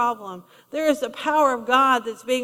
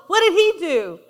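normal talking voice

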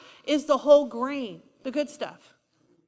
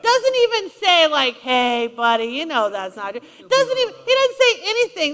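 emphatic preaching burst; 5 dB louder than usual. Real, not acted. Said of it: "preaching emphasis".

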